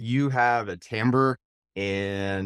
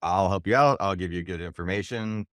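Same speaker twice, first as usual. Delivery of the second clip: calm confidence. Retold or imitated. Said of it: "I call it calm confidence".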